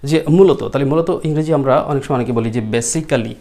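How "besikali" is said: basically said as "be-si-ka-li"; four syllables in basically, with a full "ka"; common mispronunciation. Shown as a demonstration. Teacher quoting learners' habit, mispronounced basically with a full "ka". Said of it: "এরকম বলি, তাই না?".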